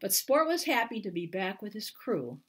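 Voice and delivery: gentle picture-book narration with lifted pitch; reading to children. Acted. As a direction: read it like bedtime to little kids. Author reads picture book aloud.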